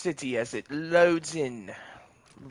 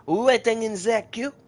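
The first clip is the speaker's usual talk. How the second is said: higher and louder sing-song repeat; 9 semitones higher, 6 dB louder than usual. Pretend. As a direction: sing it out playfully, up high. Repeated queue phrase, louder higher.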